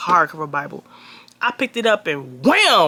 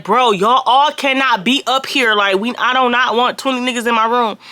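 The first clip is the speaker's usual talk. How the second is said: retold annoyed shout; 4 semitones higher than usual. Telling twenty guys to leave the hotel room, exasperated raised voice. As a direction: spread each word out, fed up with the crowd.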